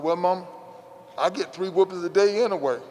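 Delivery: a grin in the voice, a little laugh; cheeky boy, half laughing; smiling. Retold or imitated. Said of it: "And I smiled and said".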